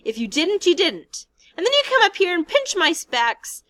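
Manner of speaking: very high, loud outraged cry; indignant cry. Acted. Piggy protesting to Ralph, indignant and shrill. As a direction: fling the question back at him.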